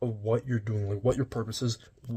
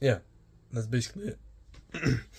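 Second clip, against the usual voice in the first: voice cracking and breaking, drawn out. Finishing a list of things they own, voice cracking. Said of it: "voice crack".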